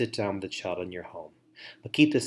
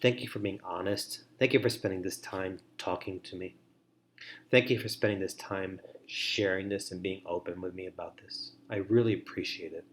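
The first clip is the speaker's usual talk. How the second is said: soft grateful sample line; 2 semitones lower, 4 dB quieter than usual. Shown as a demonstration. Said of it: "You say something like this".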